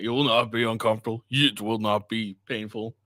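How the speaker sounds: a hint of someone else's odd, stilted phrasing; weird clip imitation. Commentator quoting the man in the clip, lightly mimicking his weird delivery. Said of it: "this is a very weird thing".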